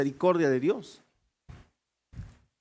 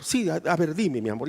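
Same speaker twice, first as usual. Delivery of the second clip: lower, softer, obliging husband; compliant husband; 5 semitones lower, 5 dB quieter than usual. Retold or imitated. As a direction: answer your bride meekly. Esposo responde a la esposa. (esposo complaciente, más grave y suave)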